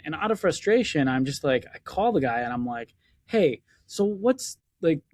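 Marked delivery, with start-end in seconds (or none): 3.2-5.0 mock pushy demand. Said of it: "I didn't say it like this".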